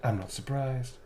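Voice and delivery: tease, sassy and self-satisfied; sassy vampire line. Shown as a demonstration. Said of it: "They trigger the memories".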